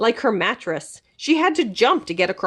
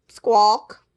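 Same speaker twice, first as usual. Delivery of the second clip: disappointed squawk. Acted. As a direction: squawk in letdown. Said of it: "That meant, this was supposed to be a vacation".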